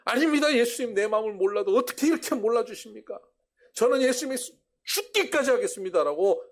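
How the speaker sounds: high, loud pleading cry; a wounded disciple crying out his devotion; shouting protest. Retold or imitated. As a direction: shout your loyalty, stung. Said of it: "소리쳤어".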